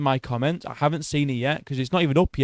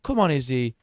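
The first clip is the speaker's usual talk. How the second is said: disappointed groan; 5 dB quieter, slower than usual. Retold or imitated. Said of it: "I was kind of a bit like".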